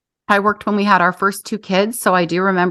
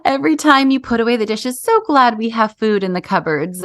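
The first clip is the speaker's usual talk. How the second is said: glib platitude; 2 semitones higher than usual. Retold or imitated. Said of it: "glib to just be like".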